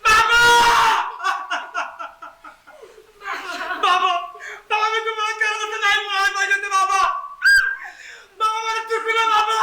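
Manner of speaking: shouting for father in anguish; desperate calling. Acted. Son screaming for his lost father, begging forgiveness.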